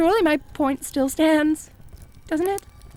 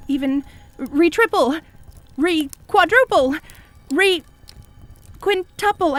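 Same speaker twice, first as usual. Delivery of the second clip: rising higher and slower each word; escalating eagerness; 3 semitones higher, slower than usual. Acted. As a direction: stretch each word out, climbing. Escalating made-up words.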